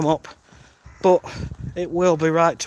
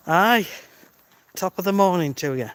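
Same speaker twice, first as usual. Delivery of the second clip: slightly raised, hammed-up Irish accent; bad Irish accent; 3 semitones higher than usual. Livestreamer greeting a viewer named Scott, bad Irish accent. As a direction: put on your worst Irish accent. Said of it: "that's my worst Irish accent".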